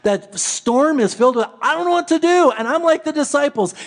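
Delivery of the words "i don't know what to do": higher, pleading helplessly; a mind in panic, voice jumping up; panicky inner voice. Acted. Pastor voicing his own fear to the congregation, panicky.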